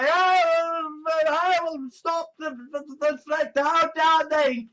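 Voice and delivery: hammed-up objector's voice; mock indignation. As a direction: play up the helpless outrage. Mocks someone vowing to stop threat.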